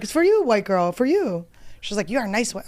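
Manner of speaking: light mock Asian accent, lilting; half-done Asian accent, quickly abandoned; attempted Asian accent. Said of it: "I can't do an Asian voice".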